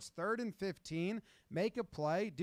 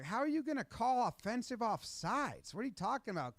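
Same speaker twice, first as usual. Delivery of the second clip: higher, incredulous complaint to the ref; mock outraged protest; 6 semitones higher than usual. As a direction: argue the call like you can't believe it.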